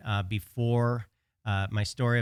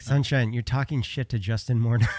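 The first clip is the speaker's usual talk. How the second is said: mock scolding; 2 semitones higher, 4 dB louder than usual. Bystander's scolding retold for laughs.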